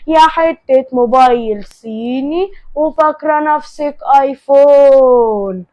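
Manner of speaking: loud taunts, last words stretched out; acted sneering put-down; scornful insult tirade. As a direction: hurl mocking insults, dragging out the punchline.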